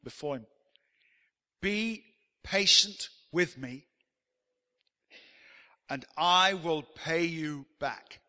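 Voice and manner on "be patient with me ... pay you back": slow, drawn-out plea on his knees; pleading servant. Acted. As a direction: beg the master for patience, slowly. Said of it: "The servant fell on his knees".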